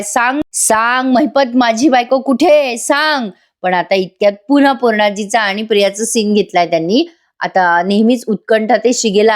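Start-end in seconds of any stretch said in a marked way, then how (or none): 0.0-3.3 mock wailing demand. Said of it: "मोठ्याने रडतो काय, मोठ्याने ओरडतो काय".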